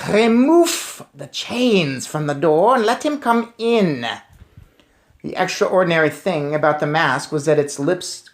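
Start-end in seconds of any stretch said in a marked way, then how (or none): 0.1-4.1 higher, slow witch order; cold witch command. Acted. Witch commands door opened.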